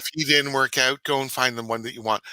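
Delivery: mocking self-righteous. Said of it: "she was self-righteous and going".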